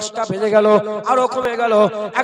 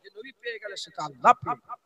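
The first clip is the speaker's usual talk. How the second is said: quiet repeat; 9 dB quieter than usual. Acted. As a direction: drop to a near hush.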